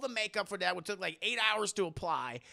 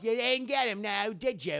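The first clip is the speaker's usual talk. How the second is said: lightly put-on Cockney; Cockney accent; 2 semitones higher, 3 dB louder than usual. Toad needles Sabretooth over a catch, mock Cockney. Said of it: "He has a Cockney accent".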